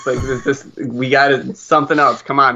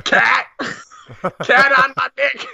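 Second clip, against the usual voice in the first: mock panic; 8 semitones higher than usual. Panicked caller in the bit.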